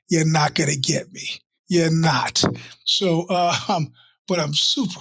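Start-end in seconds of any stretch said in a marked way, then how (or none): 0.1-2.4 forceful, punched-out phrases with pauses; acted-out defiance, a bit louder, each phrase set apart; defiant plotting. Acting out his defiant night-time plotting.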